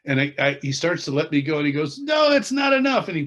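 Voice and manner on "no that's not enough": higher, louder retold outburst; emphatic protest. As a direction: cry it out as the retold dad refusing to let go. Dad pulls son back, retold.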